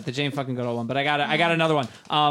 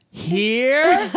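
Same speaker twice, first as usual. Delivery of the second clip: puzzled question; 9 semitones higher, 6 dB louder than usual. Retold or imitated.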